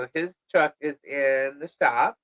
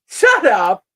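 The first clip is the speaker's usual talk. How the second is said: shut up; 4 semitones higher, 11 dB louder than usual. Retold or imitated. Disbelief at viral post.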